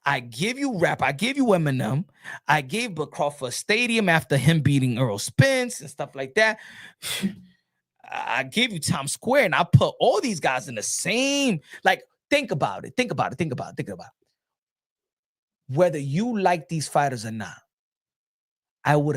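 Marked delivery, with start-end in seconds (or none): 0.1-13.4 mock brooding Turki. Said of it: "Turkey Out Shake is like". 13.8-15.8 very slow, much softer, lower trailing repeat; slow soft fade. Retold or imitated. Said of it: "repeated, fading".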